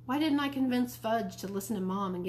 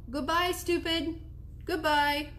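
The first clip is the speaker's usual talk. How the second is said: high-pitched mynah call; bird calling out; 8 semitones higher, slower than usual. A narrator's reading. Mynah bird calling as boy leaves, bird voice. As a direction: parrot a high farewell. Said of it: "Uncle Feather called out".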